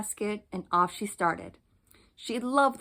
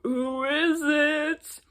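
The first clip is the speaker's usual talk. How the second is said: slow, higher mock granny voice; wolf faking quavery granny; 6 semitones higher, much slower than usual. Wolf in grandmother's bed, faking a quavery voice. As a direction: quaver it like a frail old woman. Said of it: "trying to make his voice sweet and quavery".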